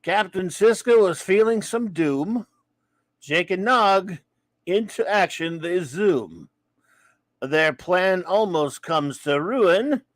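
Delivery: poem reading. Shown as a demonstration.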